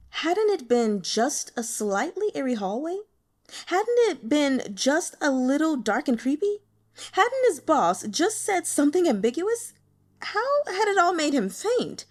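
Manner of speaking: spiralling anxious self-questioning; rising panic. A narrator's reading. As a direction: build from worry to near panic. Guo's panicked inner questions building.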